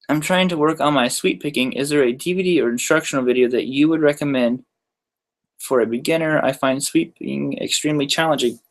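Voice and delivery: reading between hiccups; little hiccups breaking the words; hiccuping. Real, not acted. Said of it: "I'm, like, hiccuping as I'm trying to read that".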